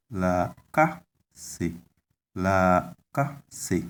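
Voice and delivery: la ka se, long la and a tone on the a after ka; lengthened and toned. Shown as a demonstration. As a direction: stretch la, then lift the a in la ka se. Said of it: "lengthening there ... tone on a".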